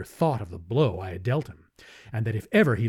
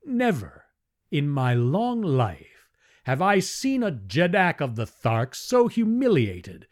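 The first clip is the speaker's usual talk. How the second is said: cold, hard voice; 7 semitones higher than usual. Acted. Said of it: "in a cold, hard voice".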